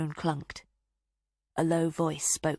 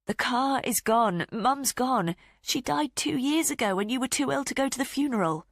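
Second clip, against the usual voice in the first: angry outburst; 8 semitones higher, 3 dB louder than usual. A narrator's reading. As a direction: finally lose patience with Dad. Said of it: "never with such anger".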